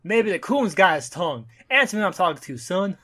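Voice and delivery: bully him like a Southern lawman; Southern cop accent. Acted. Racist cop demanding an answer, high Southern accent. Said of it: "you can see their southern accent".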